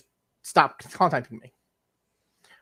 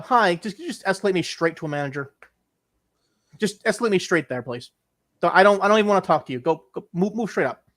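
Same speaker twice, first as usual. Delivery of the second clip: pushy, fast insistence to skip ahead; impatient demand; 2 semitones higher than usual. Pretend. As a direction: brush the agent off, get a manager. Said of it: "I'm going".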